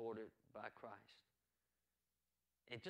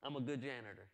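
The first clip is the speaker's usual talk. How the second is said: louder proud declaration; shouted out; 9 dB louder than usual. Pretend. Pastor shouting it out for the congregation, loud. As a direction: belt it out to the room. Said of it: "Shout it out, girl".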